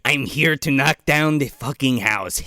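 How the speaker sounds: lightly put-on accented film-star voice; Christopher Lambert. Echoing the friend's bit, laughing Lambert impression. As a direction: join in a jokey star impression. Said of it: "Lambert comes out every time".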